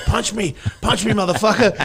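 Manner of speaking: loud, taunting dare; taunting shout. Retold or imitated. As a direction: yell it like a tough-guy challenge. Chuck Liddell taunting him.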